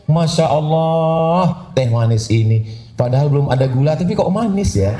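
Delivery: woo your wife over the tea; lightly hammed-up romantic praise; mock sweet praise. Husband praising wife's tea.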